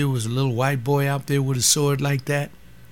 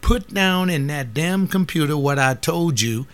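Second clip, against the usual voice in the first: retold telling off; 4 semitones higher, 3 dB louder than usual. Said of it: "I said".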